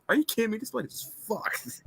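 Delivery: Johnny swearing. Retold or imitated. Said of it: "he could have said".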